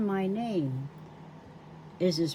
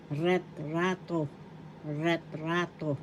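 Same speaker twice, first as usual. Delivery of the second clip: retrato slow, with RA held; stress on second syllable; 5 dB quieter than usual. Shown as a demonstration. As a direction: say retrato slowly as ret-RA-to. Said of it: "is in the second syllable".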